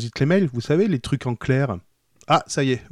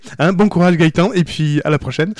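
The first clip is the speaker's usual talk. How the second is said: mock sign-off; 4 semitones higher, 7 dB louder, faster than usual. Mock sign-off, ending the show.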